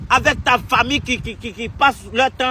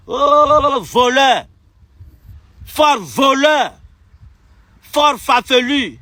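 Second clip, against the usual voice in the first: angry shout; much slower than usual. Real, not acted. A furious exile berating the president, slow shouted insults.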